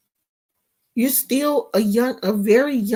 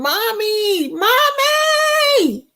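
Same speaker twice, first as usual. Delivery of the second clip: much higher mock child's cry for mommy; imitating child screaming; 11 semitones higher, much slower than usual. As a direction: call out like a scared little girl. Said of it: "just be in there screaming".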